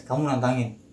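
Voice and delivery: mildly firm retold challenge; tegas. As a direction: state it firmly, without raising the voice. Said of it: "Bahasanya tegas ke gua". (agak tegas)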